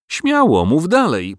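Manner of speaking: high, pushy urging; farmer urging. A narrator's reading. Farmer Giles urging the dragon on, high and pushy. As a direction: egg him on. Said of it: "powiedział Giles".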